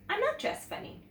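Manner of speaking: put-on high, protesting little girl; a small defensive denial; indignant child. A narrator's reading. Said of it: "she said".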